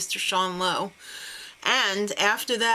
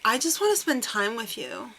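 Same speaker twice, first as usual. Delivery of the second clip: Ashley's voice. Retold or imitated. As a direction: imitate her with a hint of a lifted pitch. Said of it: "I did Ashley's voice for him".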